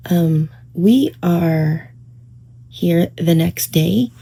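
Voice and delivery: groggy just-woke-up voice; morning voice. Real, not acted. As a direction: talk in your morning voice. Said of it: "It is my morning voice".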